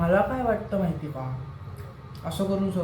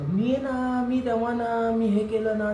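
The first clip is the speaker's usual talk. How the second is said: higher-pitched mimicry of a show-off; mock boasting; 3 semitones higher, slower than usual. Imitating the woman who bragged to him, mock boastful. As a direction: imitate someone going on about themselves, pitched up.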